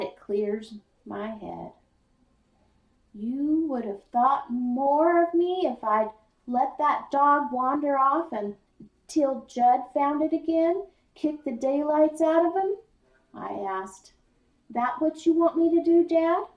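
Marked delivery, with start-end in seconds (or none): 3.1-12.8 raised, higher, louder protest; angry. Acted. Boy arguing with his father in the jeep, louder and angry. Boy argues angrily with dad. 14.7-16.5 high, loud and fast; angry challenge. Acted. Boy challenging his father, fast and loud.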